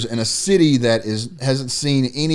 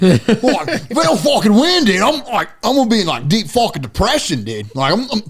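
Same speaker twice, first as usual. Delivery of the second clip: higher, whiny, hammed-up heartbroken fan; mock distraught fan; 8 semitones higher, 3 dB louder than usual. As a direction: overplay a devastated sports fan for laughs. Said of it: "I'll never be the guy to, like, say".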